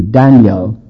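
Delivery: Daniel said as DAN-yel, two beats; DAN-yel, English fashion; two syllables. Shown as a demonstration. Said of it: "English word at least two".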